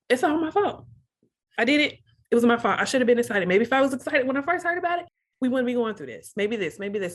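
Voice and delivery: reliving a spiral of blame, mildly worked up; retold self-blame. Wife confessing to husband it's her fault, self-blaming.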